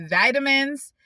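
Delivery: vitamins punched high and loud; scoffing emphasis. Real, not acted. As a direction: she mocks the hospital for only giving vitamins, incredulous scoff. Scoffing at only getting vitamins.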